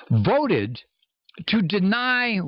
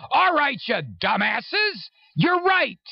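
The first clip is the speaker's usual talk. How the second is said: mock concession, pitched up; sarcastic; 8 semitones higher, slower than usual. Real, not acted. Sarcastic reply to right-wingers.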